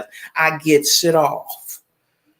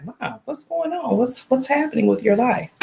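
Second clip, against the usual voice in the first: mock shocked concern; 6 semitones higher, 3 dB quieter than usual. Family member reacting to your look.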